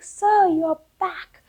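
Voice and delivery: overjoyed greeting. Acted. King overjoyed at crow's return.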